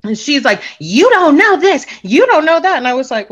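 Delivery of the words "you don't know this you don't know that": retold argumentative. Drunk woman arguing with the speaker, mock insistent. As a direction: stretch each accusation out, pitched high.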